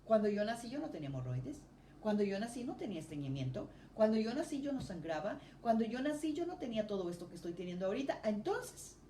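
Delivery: reclamo a Dios más agudo y rápido; oración fervorosa. Retold or imitated. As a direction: como quien le recuerda algo a Dios con urgencia. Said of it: "yo dije". (creyente nueva que reclama sanidad a Dios, aguda y rápida)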